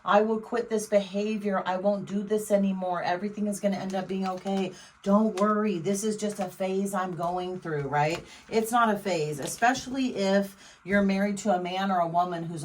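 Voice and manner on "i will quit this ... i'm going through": love bombing. Retold or imitated. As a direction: coax them back with sweet promises. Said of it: "they're gonna try and convince you".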